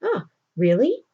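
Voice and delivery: tempted interest. Retold or imitated. Cyrano hearing he could get published, tempted interest. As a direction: act lightly tempted by an offer. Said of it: "he's kind of tempted by this".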